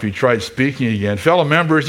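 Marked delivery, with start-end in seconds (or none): 1.2-1.9 higher, a touch shaky; mild nervous head mouse. Acted. Pastor reading the head mouse addressing the mice, higher. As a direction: voice the head mouse starting to speak.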